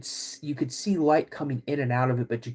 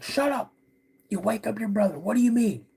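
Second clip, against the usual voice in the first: a much higher hushed snap from dad; annoyed dad; 8 semitones higher than usual. Retold or imitated. Father shushes the yelling son so the brother sleeps, mock annoyed. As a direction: hush the kid sharply, half-annoyed. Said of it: "He's like".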